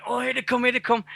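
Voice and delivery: imitating everybody bracing for the cuts; high chanting mock alarm over releases; mock panic. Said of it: "everybody went".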